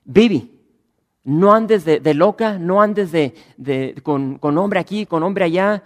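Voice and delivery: loud, high pretend scolding from the pulpit; hammed-up telling-off of a sinner; mock scolding sermon. Pastor pretends to scold a woman named Vivi, loud mock reprimand. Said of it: "es fácil yo pararme aquí y decirles".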